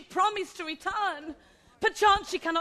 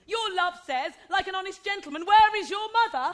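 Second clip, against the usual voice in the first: mimicking the nurse; faster than usual. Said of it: "How oddly thou repliest".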